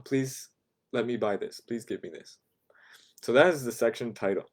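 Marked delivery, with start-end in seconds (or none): 0.0-2.4 a shy customer's hushed please; whispered polite request. Shown as a demonstration. Customer to clerk, a whispered polite request. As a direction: whisper it, unvoiced and soft.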